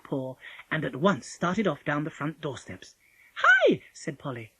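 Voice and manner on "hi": very high, loud shout; calling after. A narrator's reading. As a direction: hail someone walking off, sharply. Polly calls after the departing wolf.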